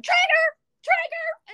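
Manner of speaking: high, slow mock yell. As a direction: call out the safe word. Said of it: "I should just yell at him".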